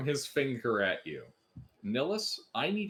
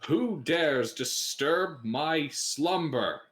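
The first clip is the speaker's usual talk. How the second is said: slow, booming ancient undead; sleeping ancient god; 3 dB louder, much slower than usual. Acted. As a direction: rise from a long slumber. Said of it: "a skeleton ... stands up from the sarcophagus".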